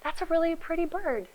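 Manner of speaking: enthusiastic reply. Shown as a demonstration. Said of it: "enthusiastically come and be like".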